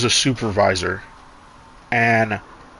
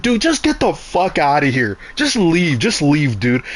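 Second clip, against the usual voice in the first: higher, fed-up brush-off; retold exasperated retort; 4 semitones higher than usual. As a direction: shoo the rude voter away, fed up. Telling the voter to leave.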